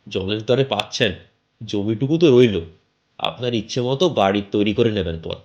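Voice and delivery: chatty local landlord pushing a sale; bald man selling a house. Acted. Bald stranger pitching the house to the narrator, lightly voiced.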